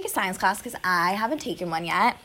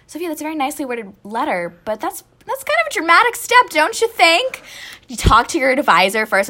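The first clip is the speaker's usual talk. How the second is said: mom's gentle advice; 8 semitones higher, 6 dB louder than usual. Retold or imitated. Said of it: "And she's like".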